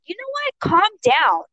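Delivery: high-pitched start, then firm order; retold firm retort. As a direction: snap back, reenacting the argument. Retelling her retort to him.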